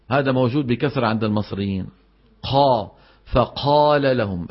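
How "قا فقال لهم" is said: "قا" with air rushing after the qaf; breathy qaf mistake. Shown as a demonstration. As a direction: let the qaf in "فقال" leak breath, drawn out slowly. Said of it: "همسها".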